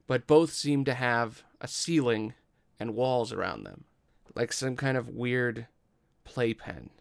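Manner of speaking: deliberate descriptive narration with pauses; game master's scene setting. Acted. Game master describes two rooms to player, measured scene-setting narration.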